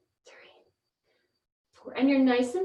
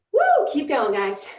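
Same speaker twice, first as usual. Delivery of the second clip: excited cheer; 6 dB louder, slower than usual. Real, not acted. Coach cheering on class.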